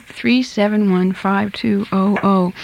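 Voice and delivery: slow, evenly spaced digits for note-takers; slow repeat. Real, not acted. Radio host repeating the phone number for listeners, slow dictation. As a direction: spell the number out slowly.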